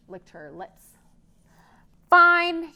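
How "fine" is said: loud, high grudging troll. Acted. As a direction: give in with a grumble. Troll gives in.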